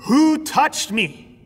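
loud, slow, high booming question; booming call. Retold or imitated. Jesus calls out to the crowd, booming loud and slow. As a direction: boom it out across the whole crowd. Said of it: "his voice booming out to this whole crowd".

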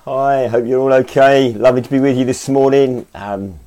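hoarse from a cold; croaky, losing voice. Real, not acted. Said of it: "I've got a little bit of a croaky voice this morning".

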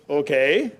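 a hint of a deep, easygoing God. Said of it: "And the voice says".

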